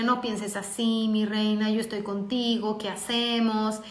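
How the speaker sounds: soft, slow motherly reassurance; tender and softened; consoling. Retold or imitated. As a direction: gently comfort a hurting child. Imagines consoling her upset daughter.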